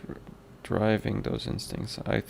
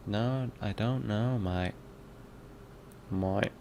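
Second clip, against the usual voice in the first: British accent; 5 dB quieter than usual. Shown as a demonstration. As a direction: practise a casual British accent. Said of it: "British accent one oh one".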